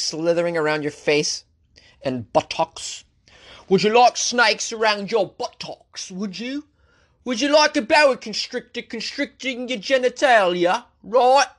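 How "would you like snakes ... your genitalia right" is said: high, slow, needling taunt; mock teasing. Host needling listeners about snakes with a high mock tease. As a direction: dangle the grossest idea in a sing-song tease.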